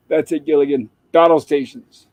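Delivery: barked command. Retold or imitated. Skipper showing Gilligan how, lightly barked command. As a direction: bark it out as a mock command. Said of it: "bark out the commands".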